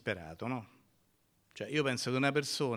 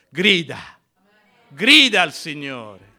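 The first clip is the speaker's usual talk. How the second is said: forceful exhortation; 4 semitones higher, 15 dB louder, slower than usual. Real, not acted. Preacher urging congregation to cry out.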